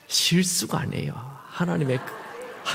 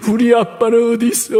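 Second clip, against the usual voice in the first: put-on higher, louder child's wail; a sobbing boy asking for his real dad; mock-crying child by a wall; 9 semitones higher, 7 dB louder than usual. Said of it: "막 울어요".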